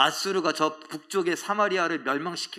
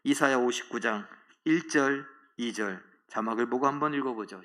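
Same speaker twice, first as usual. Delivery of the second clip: ordinary delivery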